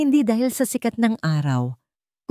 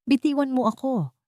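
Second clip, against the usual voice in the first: a raised, desperate cry to let go; shouting; 7 semitones higher than usual. A narrator's reading. Sinag struggling against Soliman's grip, half-voiced shout. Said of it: "sigaw niya".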